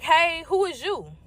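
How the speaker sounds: slow, drawn-out suspicious question; suspicious demand. Retold or imitated. To the stranger at her door at dawn, slow suspicious demand. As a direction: size her up slowly with attitude. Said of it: "I say it just like that".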